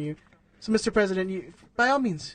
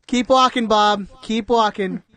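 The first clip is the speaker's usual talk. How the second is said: loud, defiant, higher voice; defiant homeowner; 4 semitones higher, 5 dB louder than usual. Pretend. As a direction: shout out at passersby from the window. Acting the robed neighbor.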